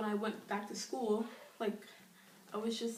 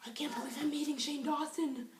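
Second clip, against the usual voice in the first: awed whisper; 4 semitones higher than usual. Retold or imitated. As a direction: gasp then breathless whisper. Retold awestruck moment.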